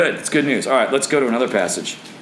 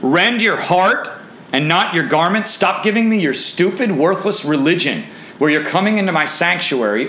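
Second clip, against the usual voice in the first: forceful pulpit rebuke in God's voice; preacher's rebuke; 3 semitones higher than usual. Acted. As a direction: scold the congregation for faking it. Preaches as God rebuking false worship.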